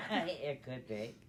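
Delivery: slow, laughing reply. Real, not acted. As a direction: chuckle while agreeing. Laughs after joke.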